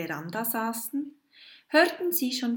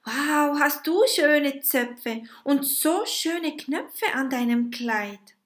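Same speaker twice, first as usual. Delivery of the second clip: put-on a witch marvelling at the girl's braids and buttons; admiring wow; 6 semitones higher, 4 dB louder than usual. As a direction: gush over the dress.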